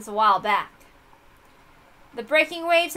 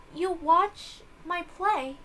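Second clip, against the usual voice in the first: slow character voice; 4 semitones higher, 3 dB quieter, much slower than usual. Acted. Character line in visual novel.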